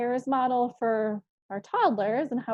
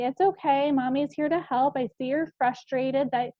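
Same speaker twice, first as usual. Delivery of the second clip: soothing voice; 3 semitones higher than usual. Shown as a demonstration. Mother redirecting toddler from a shelf, mildly soothing. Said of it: "You're using that soothing voice".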